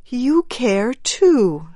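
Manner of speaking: slow, high and tender; softly. Acted. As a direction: say it softly, with feeling. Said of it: "she said softly".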